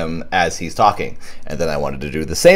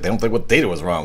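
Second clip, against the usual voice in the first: lightly annoyed reading; mild irritation in the line; a little annoyed; faster than usual. Retold or imitated. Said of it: "it sounds like she's a little annoyed".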